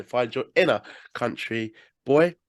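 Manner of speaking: slow it right down and stretch out "inner". Shown as a demonstration. Host redoing his sign-off line, slow and drawn out. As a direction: draw out each word of "Find your inner country boy". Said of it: "Ah, let me try again".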